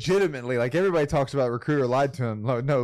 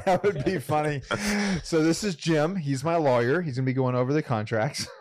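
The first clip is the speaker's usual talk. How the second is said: excited joking; 5 semitones higher than usual. Pretend. Imagining bringing a lawyer.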